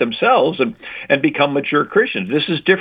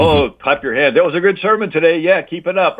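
mock churchgoer praise; 5 semitones higher than usual. Mocking passive churchgoers' praise.

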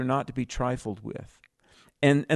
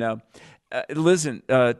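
usual speaking voice

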